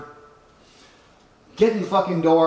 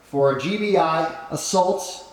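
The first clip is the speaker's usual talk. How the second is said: ordinary delivery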